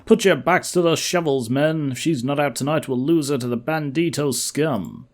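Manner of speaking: mildly forceful crew boss; dig foreman. Acted. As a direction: urge the diggers on. Foreman urging on the diggers.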